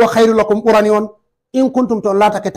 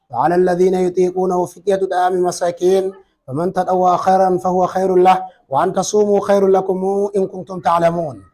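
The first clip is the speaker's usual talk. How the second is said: Quran recitation; 2 semitones lower, faster than usual. Acted. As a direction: recite the verse smoothly before explaining. Teacher recites the verse himself.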